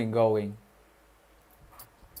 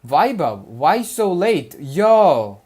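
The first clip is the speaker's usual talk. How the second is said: calling out; 3 semitones higher, 8 dB louder, much slower than usual. Real, not acted. Calling out to a late friend.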